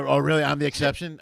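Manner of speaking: loud sarcastic disbelief; mock surprise. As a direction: act shocked to mock the line. Mocking the guy's lie.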